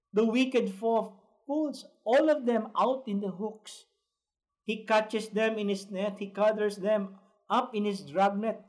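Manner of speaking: slow, deliberate scripture reading; measured preacher's Bible reading. Acted. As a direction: read the verses out slowly and emphatically.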